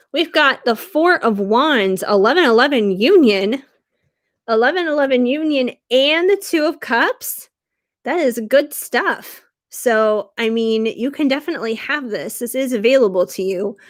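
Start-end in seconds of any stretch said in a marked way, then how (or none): 0.1-9.4 delighted. Real, not acted. Savoring a good card spread.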